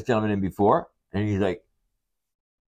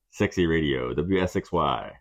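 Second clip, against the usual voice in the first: lowered radio station jingle; sexy radio voice; 4 semitones lower, slower than usual. Acted. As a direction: play the seductive station announcer. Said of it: "that sexy radio voice of his".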